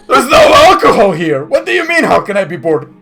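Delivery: exasperated orc. Acted. Orc griping about no alcohol here, exasperated. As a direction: bellow it like a put-out orc. Orc answers how he's bored.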